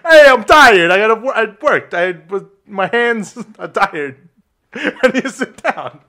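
lightly voiced weary rustic guy. Rustic guy pleading tiredness for a seat, lightly played. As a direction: start loud, then slow down half-laughing. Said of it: "I'm gonna be the, uh, rustic guy".

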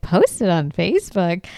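disbelieving question with swooping stresses; incredulous echo. Retold or imitated. Host reacts to the Bigfoot sign, mock incredulous. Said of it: "I was like".

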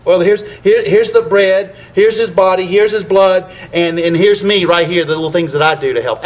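loud, pressing sermon delivery; emphatic preaching. Real, not acted. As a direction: drive home each "here's" to the congregation. Preaching at the communion table.

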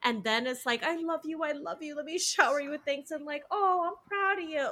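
sugary apology after the hit, mimicked; mock abuser. Friend mimicking an abusive boyfriend, syrupy and high. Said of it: "He's that person who, like, hits the woman".

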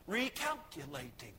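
calm, low imitation of a GPS. GPS telling the driver of a wrong turn, calmly. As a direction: recite it evenly like a machine. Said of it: "at first it was calm".

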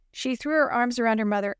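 ordinary delivery

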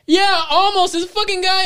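put-on high panicky girlfriend voice; mocking the girlfriend's panic, high; girlfriend panicking. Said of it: "And she's like".

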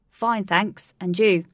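loud, halting read-out; hesitant reading. A narrator's reading. Alec reads the princess's message aloud, hesitant. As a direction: read it aloud a little uncertainly. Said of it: "with hesitation as he unwrapped it".

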